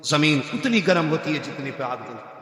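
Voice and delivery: low and soft, "उतनी" gently marked; soft low delivery. Acted. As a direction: murmur it low, "उतनी" slightly leaned on. Saying repeated, first time soft.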